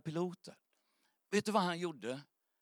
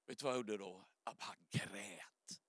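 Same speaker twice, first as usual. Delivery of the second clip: hushed confession; 7 semitones lower, 11 dB quieter than usual. Real, not acted. Preacher tells he wept.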